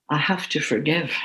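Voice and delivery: soft, choked-up words; holding back tears, quietly; getting emotional. Real, not acted. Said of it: "I'm getting a bit emotional here".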